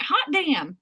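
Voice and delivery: light Southern twang on the quote; drawled Southern exclamation; Southern accent. Retold or imitated. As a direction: let a Southern accent slip out. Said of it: "That makes my accent come out".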